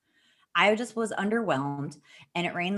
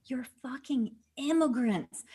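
incredulous scorn; 7 semitones higher than usual. Retold or imitated. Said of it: "And I was like".

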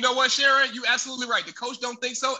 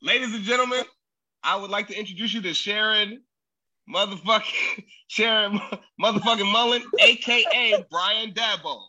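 announcer intro. Pretend. Host introducing a friend to the crowd, hammed-up announcer. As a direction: bring him out like a boxing announcer. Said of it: "And, and scene".

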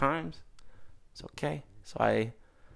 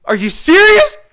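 high, loud, cracking up through the words; laughing disbelief; 17 dB louder, slower than usual. Retold or imitated. Telling friends how he yelled at laughing mom, laughing hard. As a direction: shout it while laughing helplessly.

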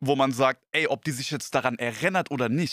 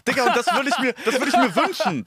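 high, loud and laughing; gleeful cry, laughing through it; laughing outburst; 11 semitones higher, 4 dB louder than usual. Real, not acted. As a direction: blurt out the wish in delighted glee. Excited outburst among laughs.

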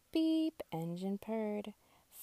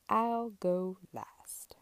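slow, whispered bus line; much slower than usual. Acted. Polite bus gives way.

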